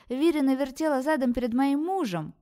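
high, loud accusation; a jealous she-wolf defending herself, loudly; shrill excuse. Acted. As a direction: fling out her excuse at full volume. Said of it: "в своё оправдание заявила волчица".

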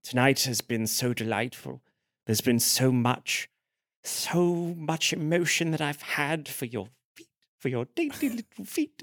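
slow, soft, halting declaration; hushed creepy-tender confession; Father Unworthy. Acted. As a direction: gaze adoringly and savour each word. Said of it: "looks Philomena directly in the eyes".

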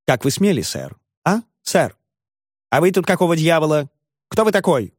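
bully the little lawyer into backing off; ferocious tone. A narrator's reading. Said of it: "таким свирепым тоном".

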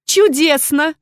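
high, bright cry of delight; delighted exclaim. A narrator's reading. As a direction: exclaim with rapture. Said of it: "с восторгом воскликнула она".

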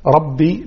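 ربي with a clearly voiced final i; clear kasra. Shown as a demonstration. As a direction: sound out the i ending of ربي. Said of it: "ما يوضح الكسر". (كسرة واضحة في آخر ربي)

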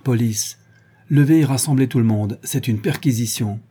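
icy, curt police order; cold announcement. Acted. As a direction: announce the search coldly, with no warmth. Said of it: "d'une voix très froide qu'il annonça".

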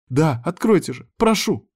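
high, insistent begging; beg, pitch climbing on the last word; impatient pleading. A narrator's reading. Girl begs to be let out.

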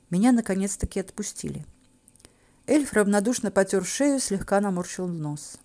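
usual speaking voice

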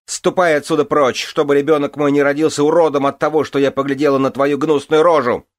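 very high, loud screeching tirade; hysterical shrieking. Acted.

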